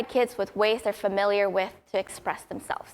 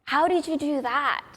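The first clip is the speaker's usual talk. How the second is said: imitated excited yell; 3 semitones higher, slower than usual. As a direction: retell a child's awed outburst. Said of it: "he yelled out".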